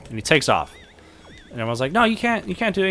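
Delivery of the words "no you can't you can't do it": high-pitched mock objection; acted alarmed protest. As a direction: play onlookers trying to stop him. Crowd objects to balloon theft.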